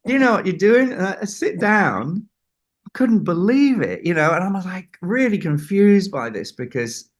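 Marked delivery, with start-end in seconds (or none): 0.0-2.3 high, loud urging shout; insistent order. Retold or imitated. Storyteller voices John urging him to sit, high and loud. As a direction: push him into the chair, much higher and louder. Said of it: "He says".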